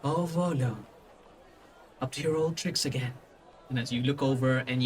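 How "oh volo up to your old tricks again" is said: lightly voiced woman, slightly hushed; a hint of a knowing lady; lady's voice. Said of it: "a lady's voice".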